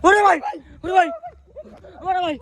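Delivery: calling from far away. Real, not acted. Cries out at ghost.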